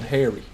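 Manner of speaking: 'Harry' said the American way, like 'hairy'; American pronunciation. Shown as a demonstration. Streamer teaches how America says the name, American pronunciation of 'Harry'. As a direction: say 'Harry' with an American vowel rhyming with 'berry'. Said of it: "In America, if your name is spelt like that, you're called".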